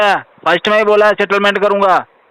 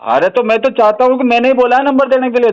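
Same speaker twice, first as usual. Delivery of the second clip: high-pitched, sustained protest; exasperated insistence; 6 semitones higher than usual. Real, not acted. Man to collector, owning up to giving the number, exasperated. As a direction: press the point in a raised pitch.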